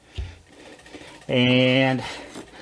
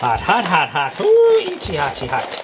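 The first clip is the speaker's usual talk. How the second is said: yelping from the heat; 3 semitones higher than usual. Real, not acted. Grabbing hot brisket with hands.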